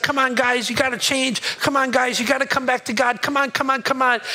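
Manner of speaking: earnest prophet pleading with the people. Acted. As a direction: beg them to come back to God. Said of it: "He's pleading with them".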